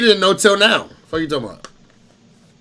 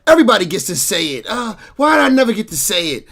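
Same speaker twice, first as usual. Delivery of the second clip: retold sitcom line; 6 semitones higher than usual. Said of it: "the nigga said".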